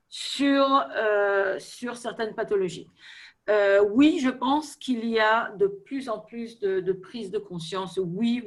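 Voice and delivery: French with a light foreign accent. Real, not acted. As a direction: speak French as a non-native. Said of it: "mon français n'est pas parfait". (accent étranger en français)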